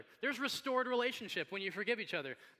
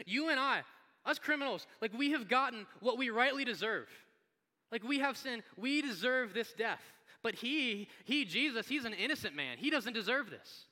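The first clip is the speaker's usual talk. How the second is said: higher, emphatic earnest reproach; rebuking; 5 semitones higher, 3 dB louder than usual. Acted. Criminal to the other criminal, earnest emphatic rebuke. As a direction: press the point with raised voice. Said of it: "rebuking the other criminal".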